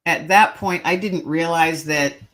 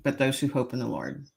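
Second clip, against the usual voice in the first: softly imitated whisper, still voiced; soft, understated echo of a whispered verse; retold little whisper; 3 semitones lower, 6 dB quieter than usual. A voice from behind to the sobbing teller, little whisper. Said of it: "this little whisper".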